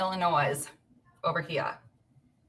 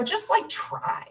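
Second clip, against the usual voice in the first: coaxing whisper; slower than usual. Retold or imitated. Coaxing husband with coloring book.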